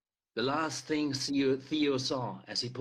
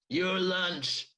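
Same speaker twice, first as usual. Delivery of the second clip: shouted; 5 semitones higher than usual. Acted. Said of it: "Dead Dale Pearson shouted".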